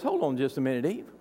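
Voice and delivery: hushed tempter; sly snake. Retold or imitated. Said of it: "the snake slithers in and says".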